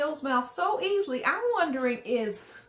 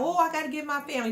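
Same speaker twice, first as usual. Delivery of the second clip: mocking quote; much faster than usual. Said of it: "Quaylon's just lying about".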